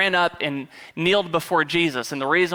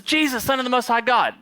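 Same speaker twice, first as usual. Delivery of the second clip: mock demon; 8 semitones higher than usual. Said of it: "he comes up and says".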